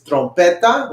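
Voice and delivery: trompeta with a Spanish r, stressed on "pe"; Spanish pronunciation. Shown as a demonstration. Teacher gives the word for trumpet, Spanish pronunciation. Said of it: "In Spanish, you can pronounce it as".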